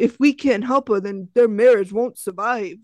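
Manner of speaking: light mock Brooklyn accent; hint of a Brooklyn accent. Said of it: "I'm really working on my Brooklyn accent".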